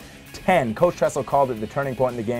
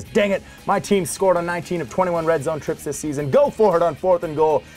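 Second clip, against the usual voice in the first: lightly voiced exasperated coach, a bit higher; Rich Rodriguez; 4 semitones higher, 3 dB louder than usual. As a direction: quote the coach's order with mild punch, louder at the end. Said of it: "Michigan head coach Rich Rodriguez says".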